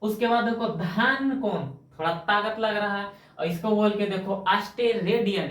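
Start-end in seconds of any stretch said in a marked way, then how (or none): 4.5-5.5 अस्टेरेडियन pushed out with effort, each syllable worked through. Shown as a demonstration. Teacher shows students how अस्टेरेडियन takes effort, said with effort. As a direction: make अस्टेरेडियन sound like it takes strength to say. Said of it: "एकरो में ताकत लग रहा है".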